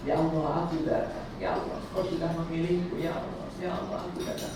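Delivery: soft, near-whispered plea; hushed, heartfelt prayer to God; tearful, hushed prayer. Shown as a demonstration. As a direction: murmur it as if close to tears. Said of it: "ucapan yang bisa sampai nangis".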